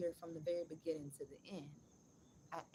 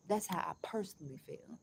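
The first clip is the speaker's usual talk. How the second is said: whispered aside; 4 dB louder than usual. Real, not acted. Streamer whispering his tip request aside, hushed. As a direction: slip it in as a whisper. Aside while asking for tips.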